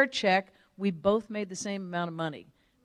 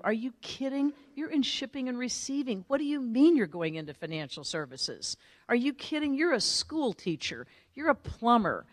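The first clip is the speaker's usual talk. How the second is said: higher-pitched mock disbelief; incredulous doubter; 4 semitones higher than usual. Naysayers doubting someone going into financial services, incredulous. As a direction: scoff as a naysayer. Doubters dismissing career change, acted.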